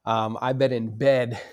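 rough, sick voice, coming out of illness; hoarse voice. Real, not acted. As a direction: voice crackling from the flu. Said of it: "if you hear my voice crackle".

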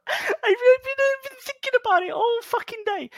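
squeaky high voice through laughter; cracking up while trying to talk; laughing. Real, not acted. After the colon joke, laughing high through the words.

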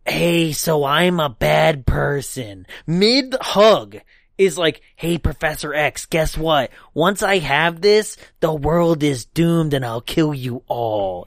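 slow, casual villain voice; lightly voiced alien villain; mock villain confession. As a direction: confess it offhand like a cartoon baddie. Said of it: "starts being like".

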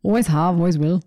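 amateur stab at a Scottish accent; terrible Scottish accent. Shown as a demonstration. Host demonstrating after her friend refuses, terrible Scottish accent. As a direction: attempt a Scottish accent, badly. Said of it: "It's terrible".

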